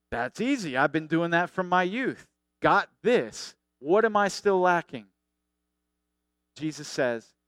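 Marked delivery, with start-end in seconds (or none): 0.1-5.1 mildly smug, a touch louder at the end. Retold or imitated. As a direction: brush it off like it's easy. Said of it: "Very smugly".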